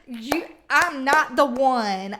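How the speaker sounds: mock telling someone off; sassy confrontation. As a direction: lay it down slow like you mean it. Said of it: "walk in the room and be like".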